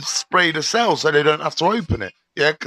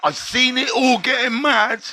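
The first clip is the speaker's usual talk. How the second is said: mock innocent excuse to the guard; 6 semitones higher than usual. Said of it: "This is what I said".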